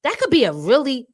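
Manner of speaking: mock prim shock. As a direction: play the scandalized prude. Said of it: "Let me clutch my pearls".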